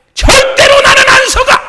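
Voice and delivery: 절대로 hit loud and high; shouted with 절대로 strongest; stress on 절대로. Acted. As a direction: punch 절대로, the rest follows. Repeated defiance, shifting stress.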